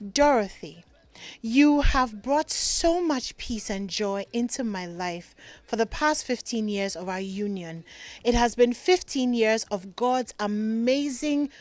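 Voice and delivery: romantic voice. Acted. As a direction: read it like a love letter meant only for her. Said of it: "let me do my romantic voice".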